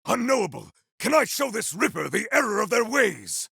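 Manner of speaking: a bold warrior barking combat lines; shouted battle cries. Acted. Warrior taunting Rippers in combat, shouting proud battle cries. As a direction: call out every line like a fighter in the thick of battle. Game hero battle barks.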